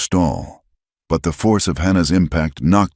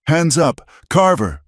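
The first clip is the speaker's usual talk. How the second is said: commanding shout; 13 semitones higher, 3 dB louder than usual. A narrator's reading. Deputies draw guns.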